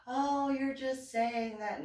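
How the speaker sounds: high, drawn-out mock protest; mimicked contestant. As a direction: imitate a rival brushing it off, slowly, up high. Voicing contestant who doubts her modesty.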